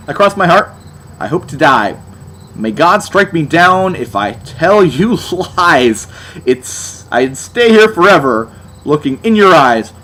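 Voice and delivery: slow, overdone earnest recital; slow, hammed-up lyric recital; mock lyric recital. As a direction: ham up the cheesy lines. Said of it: "mocking the lyrics aloud".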